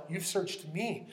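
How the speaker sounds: "me" drawn out slowly; slow, weighted "me"; stress on me. Acted. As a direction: lean on "me", stretching it to make it personal. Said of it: "Not just you've searched humanity at large".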